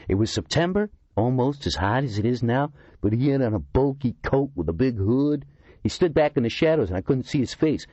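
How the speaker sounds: a complaining oddball telling his grievance; aggrieved Kurtzima. A narrator's reading. Kurtzima describes the hooded man.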